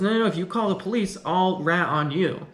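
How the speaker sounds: mock-panicked pleading, then slowing to the threat; panicked protest. Protagonist panics at police threat.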